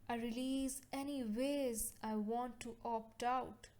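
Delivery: measured, evenly paced affirmation voice; calm guided-meditation delivery, settling at each phrase end. Acted. Leads healing affirmations in meditation.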